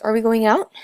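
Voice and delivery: "out" lifted in a clear rising question; question intonation. Shown as a demonstration. Presenter showing how to ask a question, rising intonation. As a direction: let the pitch climb on "out" to ask. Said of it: "inflect it with an upwards tonality".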